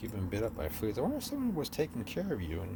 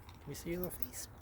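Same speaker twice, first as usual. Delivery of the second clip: soft, higher whisper; 7 semitones higher, 10 dB quieter than usual. Real, not acted. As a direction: coax the cat gently. Coaxing cat toward camera.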